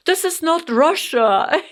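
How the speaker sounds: high, loud mock insistence; hammed-up teenage protest; kids' protest. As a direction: imitate the sons insisting. Mother imitates sons' protest.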